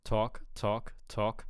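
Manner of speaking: "talk" repeated with a slight New York vowel; subtly altered vowel in each "talk". Shown as a demonstration. Coach imitates the clip, New York-like "talk". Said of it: "Kind of hearing talk instead of talk".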